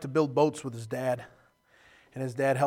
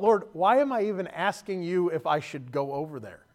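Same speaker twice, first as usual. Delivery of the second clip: louder, insistent question to the Lord; emphatic retold question; 3 semitones higher, 4 dB louder than usual. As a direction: ask it again with force, falling away at the end. Thought repeated emphatically after laugh.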